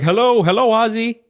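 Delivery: high-pitched mock calling to a pet; singled-out pet name in a high retold call; imitated call to a dog. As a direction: imitate someone greeting a dog, voice way up.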